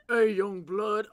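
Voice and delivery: loud, drawn-out street greeting; scary gang-member voice. Acted. Crush greeting a guy like a gangster, loud and slow. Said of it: "might temporarily have a voice change".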